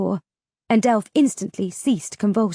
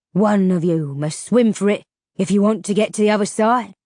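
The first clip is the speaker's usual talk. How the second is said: louder creature voice; ferryman menace; 3 dB louder than usual. A narrator's reading. Ferryman telling travellers one must swim, menacing.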